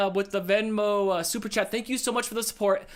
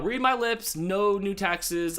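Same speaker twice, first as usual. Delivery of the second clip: presidential quote; much slower than usual. Retold or imitated. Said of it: "famous presidential things".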